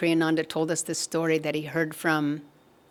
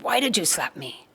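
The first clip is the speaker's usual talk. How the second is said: indignant retold protest; mildly acted outrage; 2 semitones higher than usual. Namdev protesting to the potter who slapped him, mildly outraged. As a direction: act out an affronted question. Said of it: "Namdev was outraged".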